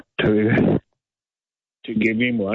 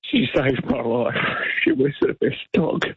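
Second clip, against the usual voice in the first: voice breaking; 3 semitones higher than usual. Real, not acted. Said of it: "sorry, I'm getting emotional".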